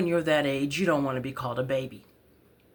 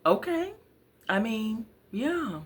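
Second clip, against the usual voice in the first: awkward teacher; 9 semitones higher than usual. Retold or imitated. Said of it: "the teacher like".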